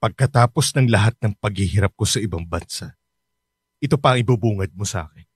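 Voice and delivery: hurt father. Acted. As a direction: let the disappointment sink. Father disappointed after sacrifice.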